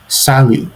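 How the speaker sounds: Salut with a silent t and a falling end; French demo. Shown as a demonstration. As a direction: model Salut, silent final t. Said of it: "the pronunciation of salut".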